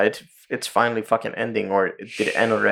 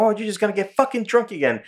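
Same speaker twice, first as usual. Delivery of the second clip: retold yelling; 8 semitones higher than usual. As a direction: imitate a nagging, wife-like telling-off. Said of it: "is yelling at him".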